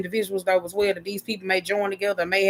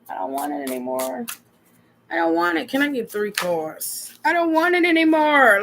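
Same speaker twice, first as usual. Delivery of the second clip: higher, rising to a loud wail by the end; fed-up whine; 6 semitones higher, 3 dB louder than usual. Acted. Fed-up person telling the reader they're done, whining louder. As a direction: act out someone fed up and done.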